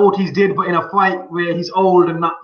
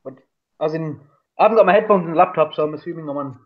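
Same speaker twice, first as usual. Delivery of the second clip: hollow, echoey speakerphone sound; inside a well. Real, not acted. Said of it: "You just sound like you're in a well".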